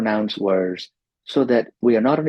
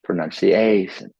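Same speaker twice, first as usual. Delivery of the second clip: "Pronunciation" with a weighted AY syllable; stress on A. Shown as a demonstration. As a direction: lean into the AY of "Pronunciation". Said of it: "So here is the stress".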